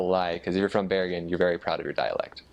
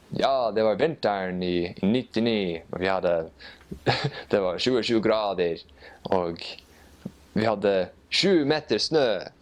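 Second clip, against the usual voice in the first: put-on old fisherman. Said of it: "very thick fisherman's dialect".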